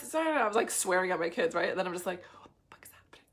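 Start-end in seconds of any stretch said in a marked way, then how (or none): 2.4-3.2 stunned, under the breath; whisper. Retold or imitated. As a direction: whisper it to yourself in disbelief. Sudden self-awareness mid-tantrum.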